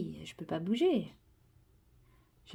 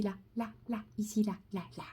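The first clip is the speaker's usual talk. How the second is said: whispering; 8 dB quieter, faster than usual. Real, not acted. Pointing at cat on camera.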